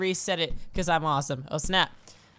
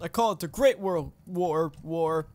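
put-on old man; 3 semitones lower than usual. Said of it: "Come on, old man".

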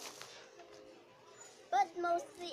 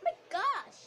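high, loud gasp of shock; shocked shriek; 11 semitones higher, 6 dB louder than usual. Acted. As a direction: shriek it like a diva in distress. Popular teacher fussing over makeup.

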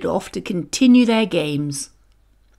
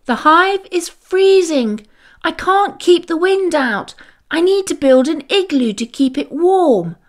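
high, louder call over the roar; shouting over wind; 7 semitones higher, 3 dB louder than usual. A narrator's reading. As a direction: call out above the storm. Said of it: "Fuzby shouted over the roar".

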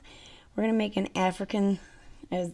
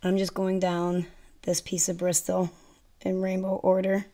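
ordinary talk, nothing marked

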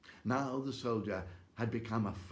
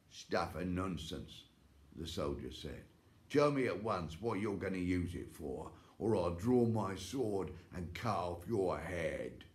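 threatening. Acted. Soldier threatens witch.

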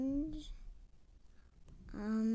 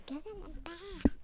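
imitating a gruff man; 9 semitones higher, 7 dB louder than usual. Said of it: "He's gonna say".

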